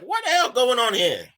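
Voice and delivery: high-pitched, shocked disbelief. Retold or imitated. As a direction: act out being shocked, pitch jumping up. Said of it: "I'm shocked now".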